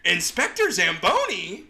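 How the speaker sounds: the whole gang gasping out the villain's name; gang in unison. Acted. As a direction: exclaim the culprit's name in shock. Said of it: "they all say in unison".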